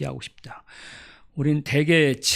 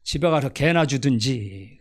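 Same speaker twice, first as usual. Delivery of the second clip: mock indignant farm woman. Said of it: "더 강펀치가 나옵니다".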